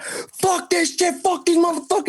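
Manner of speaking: very high, squealing mock panic; retold panic. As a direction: curse as if a dog just lunged. Panicking as dog jumps at him.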